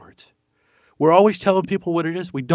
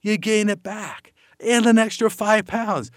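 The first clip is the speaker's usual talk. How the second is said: slow knowing aside; 4 semitones higher, slower than usual. Shown as a demonstration. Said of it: "I'll say it for you".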